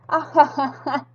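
a lazy king's "ja"; king's mock laugh. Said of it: "dijo el rey".

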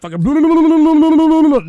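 exasperated yell. Real, not acted. Streamer ranting about six hours nonstop, exasperated yell. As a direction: drag out the words in exhausted fury.

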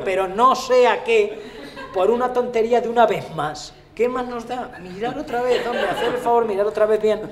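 high-pitched comic insistence; desperate pleading. Acted. Acted plea to check once more. (súplica aguda e insistente)

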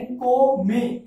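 "को में" as two slow, separate syllables; teacher slowly spelling out "को में" by syllable; syllable breakdown. Shown as a demonstration. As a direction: sound out "को", pause, then "में". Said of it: "यानी second syllable क्या हुआ".

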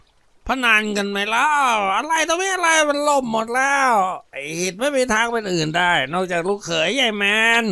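put-on a sloppy drunk holding forth; drunken slur. A narrator's reading. Ngaun keeps slurring drunkenly at his gang. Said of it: "บอกพวกอย่างอ้อแอต่อ".

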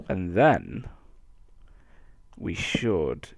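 drowsy, low and soft; sleepy voice. Real, not acted. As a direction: talk half asleep. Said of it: "my really sleepy voice".

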